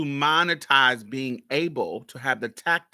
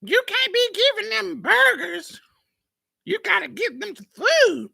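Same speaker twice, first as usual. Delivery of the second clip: aunt voice; 5 dB louder than usual. Retold or imitated. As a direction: play the scolding old aunt. Aunts scolding mother, voiced high.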